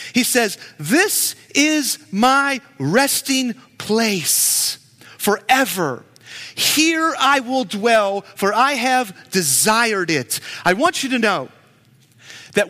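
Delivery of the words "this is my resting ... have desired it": slow, solemn, declaring voice; voicing God. Preacher quoting God to the church, slow and solemn. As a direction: proclaim it slowly as God speaking. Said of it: "the quote of what God says".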